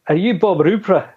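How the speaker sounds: a lightly put-on Scottish accent; terrible Scottish accent. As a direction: boss asking a question in a bad Scottish accent. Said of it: "My terrible accent".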